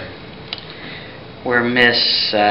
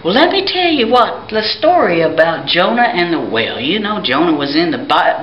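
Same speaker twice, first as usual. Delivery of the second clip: wise man voice; 4 semitones higher than usual. Acted. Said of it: "the wise man said".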